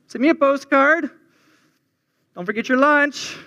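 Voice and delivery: a cheery Midwestern mom sending you off, lightly put on; Minnesotan mom accent. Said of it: "God had a Minnesotan mom accent".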